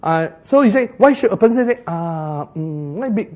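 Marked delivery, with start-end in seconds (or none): 1.8-3.3 imitating someone stalling mid-thought; hesitant thinking. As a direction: grope for words with filler sounds. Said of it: "You say they're thinking".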